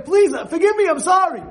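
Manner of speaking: loud, high, desperate plea for forgiveness; frantic apology. Acted. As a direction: beg in a panic. Begging forgiveness from angry man.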